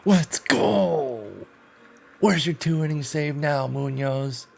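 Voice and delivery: high hushed cheer; whisper yelling. Real, not acted. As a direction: cheer hard but keep it hushed. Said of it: "so you're gonna get the whisper yell".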